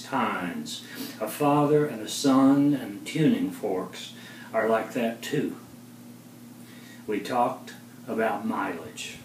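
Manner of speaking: measured poetry reading with long pauses; poem recital. Acted. Poet reads poem on reuniting with father, measured recital. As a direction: recite it line by line, lifting openings, letting endings fall.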